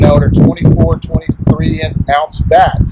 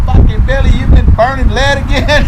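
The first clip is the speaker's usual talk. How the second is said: mock scolding; 9 semitones higher than usual. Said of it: "J walks in the house".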